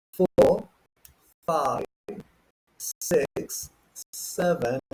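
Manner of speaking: careful British count, R's dropped; British accent with crisp T's. Shown as a demonstration. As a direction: demonstrate British pronunciation number by number. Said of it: "go through this with the British accent".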